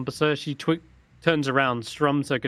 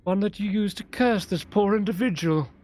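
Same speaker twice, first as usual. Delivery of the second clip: put-on higher, commanding old mage's voice; stern old wizard; 7 semitones higher than usual. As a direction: demand the artifact with cold authority. Old wizard makes demand.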